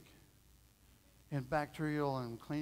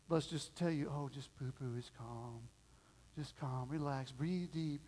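softer, slowing down into a mocking calm voice; mock soothing; 4 dB quieter, slower than usual. Preacher parodying dismissive comfort for a child's fears, mock soothing.

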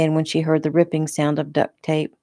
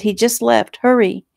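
higher-pitched, pressing voice; urgent urging; 6 semitones higher, 3 dB louder than usual. A narrator's reading. Victim hurrying the officer after her attacker, urgent. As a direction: urge him on with raised pitch.

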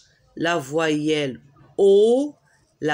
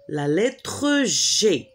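slow teaching delivery; slower than usual. Shown as a demonstration. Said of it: "comment on prononce".

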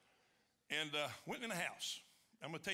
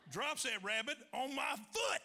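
higher, slow, laughing shout; triumphant punchline; 6 semitones higher than usual. Real, not acted. Comic telling the crowd the payoff, laughing shout. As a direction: land the payoff with glee.

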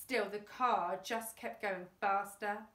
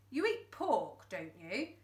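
yelled. Acted. Fingers taunting the boy about pork, yelled. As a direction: needle the boy. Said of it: "yelled Fingers".

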